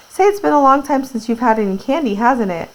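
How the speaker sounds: called out across the store, high; loud voice. Acted. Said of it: "my grandpa said in a loud voice".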